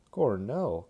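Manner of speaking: a loud, delighted shout of Cornell; Crosby cries out the name of his own college, delighted; glad cry. A narrator's reading. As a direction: bellow Cornell like meeting an old friend. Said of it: "cried Crosby gladly".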